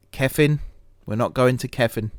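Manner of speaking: "Kefin" as KEF-in, f not v; Welsh-style name. Real, not acted. Gamer trying a Welsh name "Kefin" with f sound. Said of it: "I am pronouncing that right, aren't I?".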